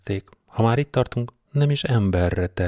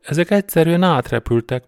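astonished exclamation; 9 semitones higher, 6 dB louder than usual. A narrator's reading. Partner stunned by flying bikers.

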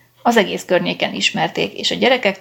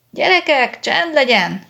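shouting mother; 7 semitones higher, slower than usual. A narrator's reading. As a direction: hush the noisy kids with a sharp call. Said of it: "kiabált az asszony".

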